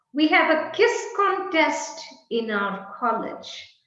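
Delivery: "kiss" zegt hij voor quiz, with a plain k sound; mispronounced quiz. Shown as a demonstration. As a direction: say "kiss" in place of quiz, as a wrong example. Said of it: "How distorted the communication is".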